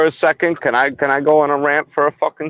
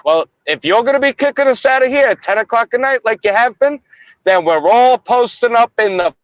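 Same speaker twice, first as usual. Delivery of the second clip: heated rant, pitched higher; angry rant; 3 semitones higher than usual. Real, not acted. Local venting to cops about the docks, heated. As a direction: vent like a fed-up local. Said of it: "I'm going on a fucking rant".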